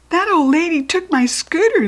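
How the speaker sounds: put-on high, tearful child's voice; sobbing child. A narrator's reading. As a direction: sob it like a hurt little boy. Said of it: "the little boy sobbed".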